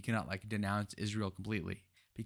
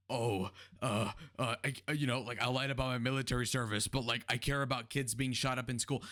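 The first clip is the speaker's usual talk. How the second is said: mocking Walz. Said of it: "You're talking about, like".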